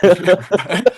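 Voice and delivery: laughing. Real, not acted. Laughing agreement.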